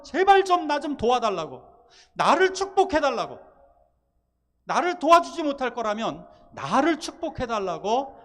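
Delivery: cling and beg with all your strength; fierce begging. Retold or imitated. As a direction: Jacob begging the stranger, loud and fierce. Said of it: "아주 격렬하게 애원을 합니다".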